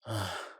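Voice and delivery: soft exhaled sigh; weary sigh. Acted. Weakened vampire beside his little one, weary sigh. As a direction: breathe out wearily.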